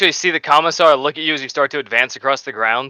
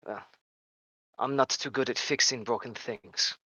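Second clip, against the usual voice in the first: lightly voiced commissar, trailing softer; measured orders, easing quieter at the end; commissar giving orders; 3 dB quieter than usual. Commissar telling sniper to protect the cog boy, lightly voiced.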